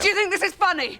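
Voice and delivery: high, strained accusation; hurt fury, voice climbing; angry. Acted. Furious outburst at partner.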